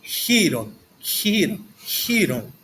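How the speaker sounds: "Chiron" with a breathy h sound at the start; "Chiron" said as hiron, like a Greek teacher demonstrating; modern Greek. Shown as a demonstration. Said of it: "na pronúncia moderna". ("Chiron" com som de rr aspirado, pronúncia moderna)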